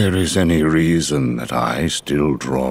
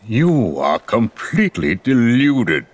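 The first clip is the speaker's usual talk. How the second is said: raised, louder, scornful rebuke; angry retort; 6 semitones higher, 3 dB louder than usual. Acted. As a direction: throw the accusation back at him. Rebuffing the accuser in anger.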